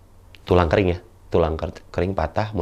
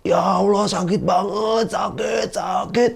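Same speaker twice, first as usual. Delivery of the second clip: high, slow wailing of pain; hammed-up sobbing over the pain; mock crying in pain; 10 semitones higher, slower than usual. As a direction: wail like a crying patient. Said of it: "sambil nangis".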